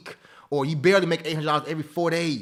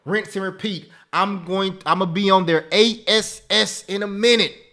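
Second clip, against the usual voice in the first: hype shout-out; 3 semitones higher, 6 dB louder than usual. Real, not acted. Hyping up a student's win.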